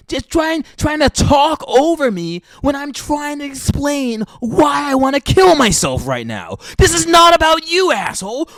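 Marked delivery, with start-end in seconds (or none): 0.8-6.6 shouting rant. Real, not acted. Ranting at husband. 6.8-8.5 louder, higher angry shout. Real, not acted. To the husband who talks over her, an angry shout.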